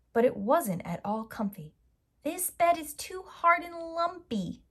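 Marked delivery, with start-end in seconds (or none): 2.2-4.6 put-on high little-girl grumble; child grumbling about a lumpy bed; grumbling Goldilocks. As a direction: complain like a fussy child. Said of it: "she grumbled".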